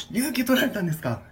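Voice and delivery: high, overly polite clerk; polite staff voice. Pretend. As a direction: ask like a prim receptionist. Staff role continues.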